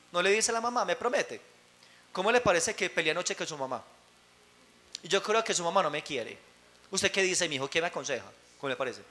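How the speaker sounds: low, hushed confidences, falling away at phrase ends; softly confide, as if sharing a secret; confiding parent. Acted. Father secretly confides in his child about mum, hushed and low.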